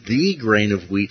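THE said as a full "thee" in the verse; stress on THE. Shown as a demonstration. Teacher rereading the corrected verse, stressed THE. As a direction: lean on "the" before grain, as "thee". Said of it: "it would read more like this".

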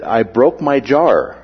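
slow, lightly imitated Boston accent; mild Boston take on "jaw", coming out as "jar". Retelling a Boston friend's broken jaw, light Boston accent. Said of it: "pronunciations like that would be very identifiable".

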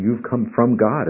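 "You've come from God" said slowly, leaning on "from"; a teacher stressing "from God" for the class. Shown as a demonstration. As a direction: put the weight on "from God". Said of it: "puts the focus on".

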